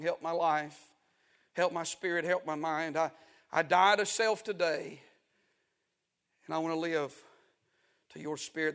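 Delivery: soft, humble prayer of surrender; quiet prayer. Pretend. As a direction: pray it softly, giving up. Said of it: "throw the old white flag up and say".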